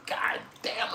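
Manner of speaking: high, drawn-out mock astonishment; acted awe. Country visitor seeing tall buildings, mock awe. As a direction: marvel up high at the sight.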